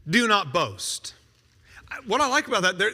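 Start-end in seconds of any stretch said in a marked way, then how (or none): 0.1-1.1 slow solemn command. Retold or imitated. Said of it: "I said to the boastful".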